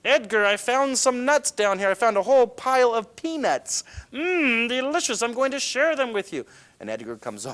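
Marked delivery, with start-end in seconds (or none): 0.0-6.4 high, loud cartoon elephant voice; bright high-pitched cartoon girl elephant calling her brother; Eloise the elephant. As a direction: squeal it out like an excited little elephant. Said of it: "This is Eloise. She's looking for her brother".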